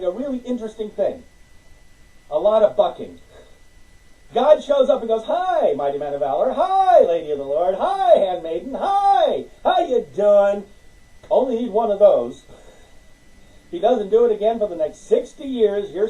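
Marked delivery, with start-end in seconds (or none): 5.2-10.6 playful booming greeting; hammed-up divine hello; God greeting. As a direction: hail them like a cheery host.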